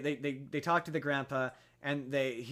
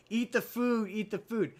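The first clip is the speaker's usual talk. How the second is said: pushy insisting; 7 semitones higher than usual. Retold or imitated. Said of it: "are like".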